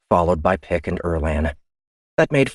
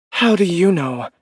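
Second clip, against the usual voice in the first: much higher and louder protest; indignant officer; 12 semitones higher, 4 dB louder than usual. Acted. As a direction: push back in disbelief. Ian voice.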